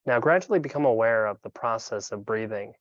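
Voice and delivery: calm, unhurried meditation guide with long pauses; guided meditation. Acted. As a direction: guide them gently into breath awareness, leaving room between phrases.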